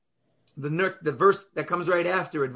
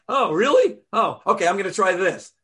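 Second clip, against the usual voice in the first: mock naive acceptance; 3 semitones higher, 5 dB louder than usual. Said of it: "we're like".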